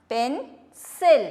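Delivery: slow, careful പെൻസിൽ with a clear s; teacher draws out പെൻസിൽ for the class; drawn-out demo. Shown as a demonstration. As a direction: stretch പെൻസിൽ slowly, leaning on the s. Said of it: "സിയുടെ sound".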